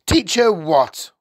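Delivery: slow, high, loud question; high-pitched, scornful bafflement; baffled father. A narrator's reading. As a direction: blurt it out in loud incomprehension.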